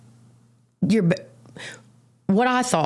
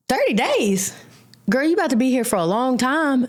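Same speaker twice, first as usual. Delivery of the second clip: mocking girl; 7 semitones higher than usual. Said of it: "A girl sitting down was like".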